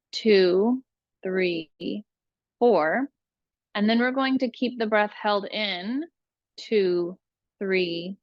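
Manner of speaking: measured, calm meditation guide; steady instructions with pauses between counts; guided breathing exercise. Real, not acted. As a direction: pace the breath with slow, drawn-out counts.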